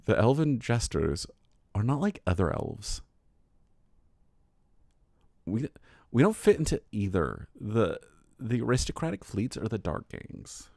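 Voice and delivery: put-on valley girl accent. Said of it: "to use a Valley Girl voice like that".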